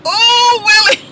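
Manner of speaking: high, lingering swoon over a cute guy; swooning sigh. Retold or imitated. Host mimics herself ogling Willie, a high swoon. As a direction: breathe his name like you're smitten. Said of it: "I was like".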